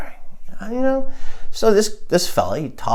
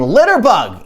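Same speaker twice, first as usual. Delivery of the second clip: higher mock yell; mock scream; 4 semitones higher than usual. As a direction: imitate a repeated street scream, held back. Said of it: "I kept screaming".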